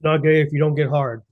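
talking around an ice cube; ice in mouth. Real, not acted. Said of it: "I had, like, an ice cube in my mouth".

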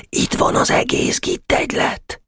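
hoarse stage whisper, no voice. Acted. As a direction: whisper it like a secret report. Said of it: "suttogta Weiss". (suttogva jelentve)

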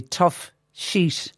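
put-on "Tough Sheet" in a light Mexican accent; jokey, lightly put-on Mexican accent. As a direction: try a hint of a Mexican accent. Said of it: "because I said it with an, a Mexican accent".

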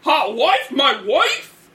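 hype man voice. Acted. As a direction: shout it like a cocky hype man. Hype man character shouting.

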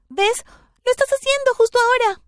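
grito agudo y fuerte, mucho más alto. A narrator's reading. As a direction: gritarle a mamá, dolida. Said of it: "le grité". (grito agudo y fuerte a mamá)

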